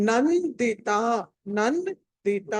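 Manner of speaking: నందిత with a held dental n before di; clear n in నందిత. Shown as a demonstration. Teacher shows the nasal, నందిత said slowly with dental n. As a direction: sound the anusvara in నందిత as a clear n. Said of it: "దాన్ని న అని పలకాలి".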